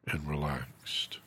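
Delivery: breathy relaxing whisper. Acted. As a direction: let it fade to a whisper. Guided relaxation, drifting off.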